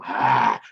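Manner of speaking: short loud "ah" of attack; loud open-throated villain cry; villain's cry. Acted. Game master voicing the pirate before the arrow hits, loud cry. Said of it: "Gouge Shank's face go".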